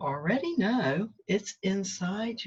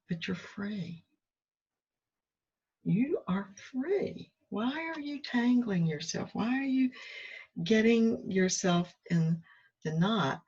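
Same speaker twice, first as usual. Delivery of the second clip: gentle inner voice; 4 semitones higher than usual. Retold or imitated. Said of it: "it was like".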